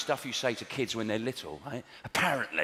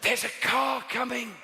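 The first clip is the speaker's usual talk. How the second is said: mock gentle warning; 10 semitones higher than usual. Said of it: "you're not supposed to shout at children".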